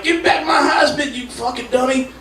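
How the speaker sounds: put-on shouted cranky old man; Fred Sanford. O J voiced as Sanford yelling, a high shout. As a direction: bark it like a junk man. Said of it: "he'd be walking around".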